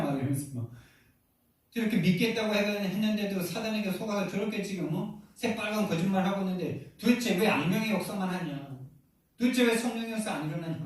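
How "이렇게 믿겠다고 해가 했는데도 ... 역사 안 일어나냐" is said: exasperated retelling, pitched up, pleading for answers; retold angry complaint. Complaining to God's angels about grandfather's deception, retold exasperation. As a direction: re-enact frustrated questions in a higher voice. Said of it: "막 화가 나가지고".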